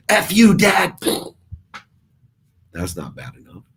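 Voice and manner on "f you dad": much higher, louder squeaky snap at dad; mock teen outburst. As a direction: hurl it back like a furious teenager. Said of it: "she would have said".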